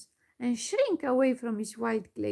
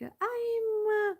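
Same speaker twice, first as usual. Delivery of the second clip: high, halting stammer, louder at the end; the forgetful gnome stammering high and confused; 11 semitones higher, 5 dB louder than usual. A narrator's reading. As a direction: trip over the words, lost. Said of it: "he stammered".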